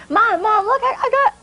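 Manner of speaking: put-on high, excited little-boy chatter; proud to show what's left; eager boy. Boy excitedly showing bread.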